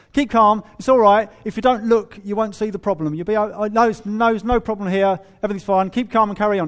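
loud, hammed-up cheerful denial; mock breezy denial. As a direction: play the cheery Brit who won't look. Parodying denial, louder.

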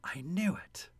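soft, drawn-out quote; very slow realization. Retold or imitated. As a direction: say it slowly and quietly, as it sinks in. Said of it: "he just very slowly says".

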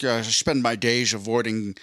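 put-on light Scottish accent, slushy s sounds; Sean Connery. Retelling a friend's favorite movie line, lightly imitated Scottish accent. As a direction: quote it with a hint of a Scottish accent. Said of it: "spot on Sean Connery impression".

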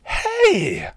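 sharp high startled cry; startled yelp. A narrator's reading. Tara yelps at the punch on her nose, very high. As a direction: yelp from a sudden hit. Tara's outcry.

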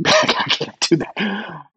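high, slow, pleading I can't; mock-horrified no way; incredulous protest. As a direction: squeak out a stunned refusal. Retold panicked refusal to boss.

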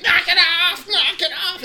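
high, loud shout of knock it off; retold yell to stop the fight; yelling to break it up. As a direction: bark it out like a coach stopping a fight. Coach breaking up hallway fight.

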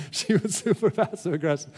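laughing through the words. Real, not acted. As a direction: chuckle as you agree. Laughing retelling agreement.

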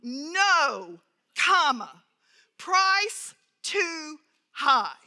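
terse telegram reply with a clear pause at the comma. Acted. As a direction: read it out short and stiff, with the pause after No. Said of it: "this very terse response".

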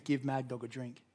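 a small still voice nudging him; quiet inner voice. Retold or imitated. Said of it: "small, quiet voice".

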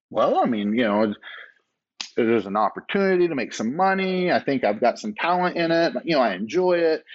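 imitating yourself listing reasons; throwing out reasons. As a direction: reel off excuses, retelling your own defence. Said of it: "just throw out all these reasons".

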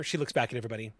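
normal talking voice

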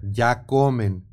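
slow, spelled-out reading of the ad; slow dictation pace; dictating punctuation. Shown as a demonstration. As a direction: read it slowly as if dictating the commas. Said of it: "faltó comas, puntos".

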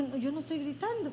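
soft, quick protest; hushed, hurried self-defence; not shouting. Retold or imitated. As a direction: quietly deny that you are shouting. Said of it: "baja la voz porque estás gritando".

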